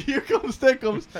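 high, stretched-out mock scream; screamed catchphrase. Shown as a demonstration. Showing friends a convenience store stunt, mock screaming. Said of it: "start screaming".

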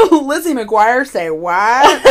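playful impression of a nineties vlogger; imitating a YouTuber. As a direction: ham up the makeup-tutorial girl's catchphrase. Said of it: "She's like".

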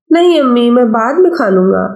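put-on young boy. Child Afaq voiced.

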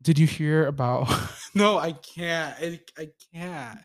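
laughing nervously, can't get it out; giggling through nerves, words breaking; nervous laughter. Real, not acted. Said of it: "like, nervous laughter".

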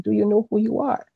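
high, fast replay of dad asking; retold father's question. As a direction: pitch it up and rush it like dad pressing her. Dad's question retold with emphasis.

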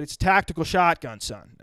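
1 dad voice. Retold or imitated. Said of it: "he said".

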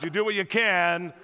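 "You do what you can" shouted with the congregation; crowd shout. Shown as a demonstration. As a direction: call it out loud together. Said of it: "Come on, everybody in the house".

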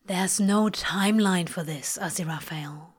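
gentle, understated reassurance, softening on the name; not unkind. A narrator's reading. Crowley answering Aziraphale's self-blame, not unkindly. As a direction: let it drop low and soft at the end. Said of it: "not unkindly".

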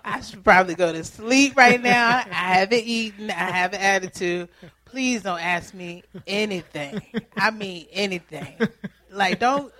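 half-laughing mock meltdown after a long day; exasperated loud rant. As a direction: vent like you have nothing left for anyone. Acting out tired self at home.

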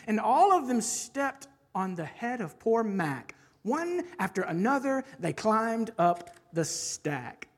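animated rhyming story narration; bouncy picture-book storyteller; story reading. Acted. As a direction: read it to children with a lilting, swinging rhythm. Reads a rhyming children's book aloud.

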